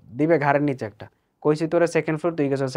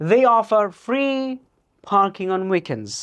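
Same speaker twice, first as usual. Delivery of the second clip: slow dictation read; 3 semitones higher, much slower than usual. Shown as a demonstration. Teacher reading a listening-test sentence: very slow dictation. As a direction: read slowly like a test recording. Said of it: "খেয়াল করে দেখেন".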